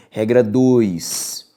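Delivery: slow, spaced dictation of the rule; slow dictation for note-taking. Shown as a demonstration. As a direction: dictate it slowly so students can write. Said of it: "dictating the rule".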